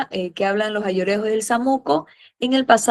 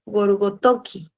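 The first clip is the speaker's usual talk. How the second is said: slow, careful naming; slower than usual. Shown as a demonstration. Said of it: "Ahí está como un datito".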